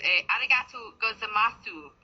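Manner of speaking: "arigato gozaimasu" said slowly, each syllable spelled out the English way; a careful, stiff tourist "arigato gozaimasu"; clumsy Japanese. Shown as a demonstration. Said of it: "which is the wrong way of saying it".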